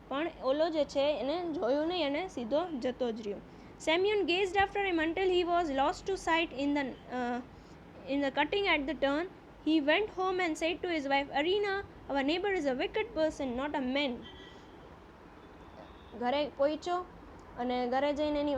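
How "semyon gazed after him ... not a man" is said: slow, deliberate reading aloud of the English text; slow story reading. A narrator's reading. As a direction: read each phrase slowly, as a teacher before translating. (ધીમે ધીમે વાર્તાનું વાંચન)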